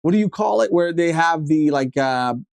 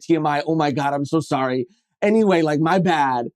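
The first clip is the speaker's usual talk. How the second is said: lightly voiced spacey server apologizing; a hint of a dazed stoner girl rambling sorry; stoner waitress; 2 semitones lower than usual. Server apologizes to diners for the parking lot, lightly voiced stoner rambling. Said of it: "stoner energy too".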